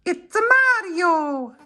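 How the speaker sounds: very high, stretched-out falsetto catchphrase; slow, loud-hearted squeaky character voice; Mario. Acted. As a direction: do a poor cartoon hero impression. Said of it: "That's my impression of Mario".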